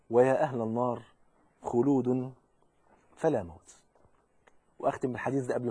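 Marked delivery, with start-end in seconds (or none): 0.1-3.8 grim low verdict. A narrator's reading. The caller pronounces doom on hell's people, grim low verdict. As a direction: let the doom sink slowly.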